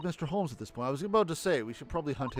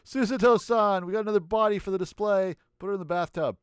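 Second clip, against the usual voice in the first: calling out; 5 semitones higher, 6 dB louder than usual. Acted. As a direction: shout her name to get attention. Calling out to Suzuto.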